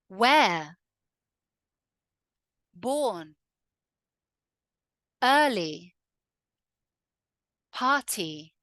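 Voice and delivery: slow word-by-word model, no R sounded; "Singer" as "singah", "writer" as "writah"; silent R. Shown as a demonstration. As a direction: drop every R in "builder, where, born, early". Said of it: "we do not pronounce that R".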